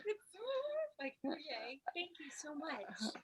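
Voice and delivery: choked-up whispered thanks, voice cracking; barely holding back tears of gratitude; tearful thanks. Real, not acted. Birthday woman thanking her reader, tearful whisper.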